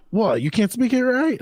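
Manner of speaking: Italian-sounding waiter. Retold or imitated. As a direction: imitate the waiter with a light Italian accent, going up. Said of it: "I don't know why he sounded Italian".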